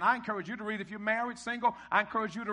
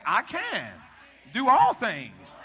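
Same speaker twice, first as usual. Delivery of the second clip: louder, drawn-out rallying call; with conviction; 2 semitones higher, 5 dB louder, much slower than usual. Shown as a demonstration. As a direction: build to a shout on "all things". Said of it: "say it with some conviction".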